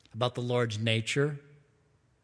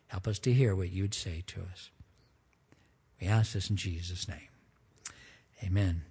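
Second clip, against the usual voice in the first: prayer. Acted. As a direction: pray it humbly to the Lord. Pastor prays before sermon.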